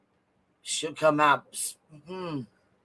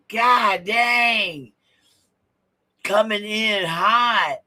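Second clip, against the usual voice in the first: excited shout; 6 semitones higher, much slower than usual. Real, not acted. Shouting reaction to the clip.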